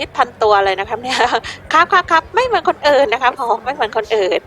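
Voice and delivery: loud pushy salesman pitch; a hint of a fast-talking street vendor. Voicing a male shirt seller.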